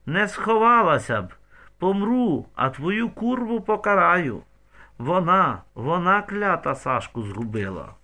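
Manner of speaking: high, loud furious shriek; grieving mother screaming back in fury; crazed scream. A narrator's reading. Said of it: "закричала мамці у відповідь, як скажена".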